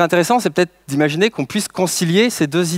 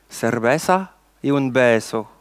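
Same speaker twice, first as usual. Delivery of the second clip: Spanish words; slower than usual. Shown as a demonstration. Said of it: "Trois mots d'espagnol".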